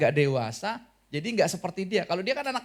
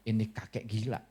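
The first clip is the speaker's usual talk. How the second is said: mocking crowd; 7 semitones lower, 4 dB quieter than usual. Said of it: "mereka cuman bilang".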